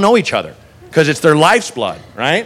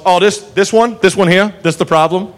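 southern cop. Retold or imitated. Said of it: "And finally goes".

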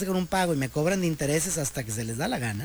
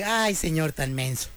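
condescending tone; 3 semitones lower, slower than usual. Retold or imitated. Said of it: "me lo dijo en ese tonito como".

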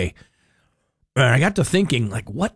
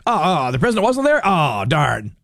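mock disappointment, starting high and dropping; imitating radio people; 4 semitones higher than usual. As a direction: play at being let down. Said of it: "Radio people are like".

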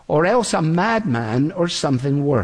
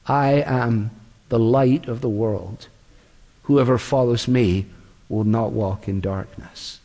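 solemn voice of Jesus; 6 semitones lower than usual. Acted. Preacher quoting Jesus at the feast, low and hushed. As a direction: lower the voice to let the claim land.

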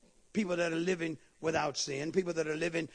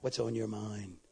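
low, soft, careful question; gingerly; 10 semitones lower, 6 dB quieter than usual. Shown as a demonstration. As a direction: ask it very gingerly. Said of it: "ask your neighbor real gingerly".

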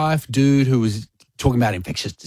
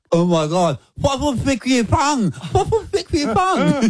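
high-pitched amazed squeal; excited squeal; 12 semitones higher than usual. Retold or imitated. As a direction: squeal it out, thrilled. Excited squeal about sticky fossil.

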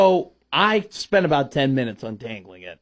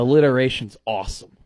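dry sarcastic praise; deadpan fake enthusiasm; 4 semitones lower than usual. Real, not acted. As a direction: say it with understated mock approval. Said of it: "I say that sarcastically".

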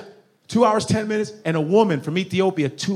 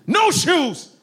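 high exclaim; 11 semitones higher than usual. Acted.

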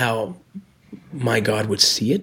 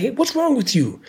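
much higher, mock angry outburst at the woman; imitating a furious buddy scolding her, pitched up high; retold angry yell; 12 semitones higher than usual. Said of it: "he was so mad".

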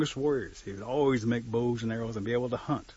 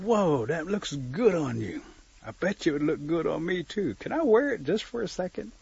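a touch of wheedling, higher pitch; lightly voiced admiring turkey; 6 semitones higher than usual. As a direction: lightly play a turkey angling to borrow it.

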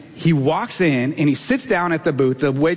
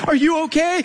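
high-pitched imitation of a worried wife; acted-out anxious check-in; concerned wife; 11 semitones higher than usual. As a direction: ask as the wife would, voice lifted high. Voicing worried wife's question.

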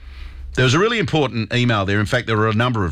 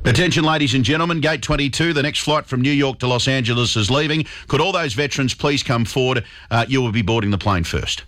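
airport announcement. Retold or imitated. Host acts out a US gate agent calling veterans forward, lightly announcer-like. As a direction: play the airline staff calling passengers to board.

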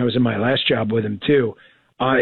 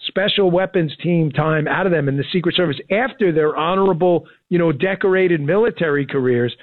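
mildly excited, slightly raised pitch; 4 semitones higher than usual. Real, not acted. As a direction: enthusiasm building a case. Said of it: "I sound so excited".

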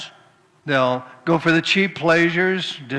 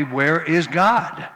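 rather loudly; much slower than usual. Acted. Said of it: "he said rather loudly".

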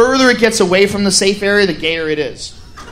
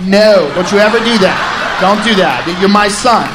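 stern dad; 3 dB louder than usual. Acted. Dad scolding son.

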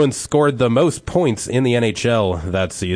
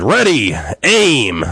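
loud barked command, higher; captain's shout; 4 semitones higher, 5 dB louder, much slower than usual. Acted. Captain orders the firing squad, loud shout. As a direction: call it out like an officer. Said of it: "the captain of the guard shouted".

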